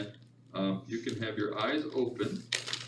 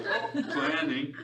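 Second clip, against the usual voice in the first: amused noting; 8 semitones higher, 5 dB louder, slower than usual. Retold or imitated. Quoting own inner noting voice.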